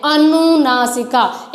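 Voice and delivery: अनुनासिका spoken slowly, syllable by syllable; slow careful term. Shown as a demonstration. Teacher to children, sounding out the term slowly. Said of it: "तो जो अनुनासिका है उसमें क्या है".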